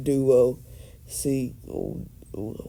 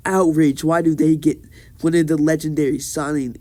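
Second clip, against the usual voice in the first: mock outraged yell, louder; half-yell it in indignation; 5 dB louder, faster than usual. Sasuke protesting to Hiruzen about the team, mock outraged yell. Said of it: "Sasuke just yells".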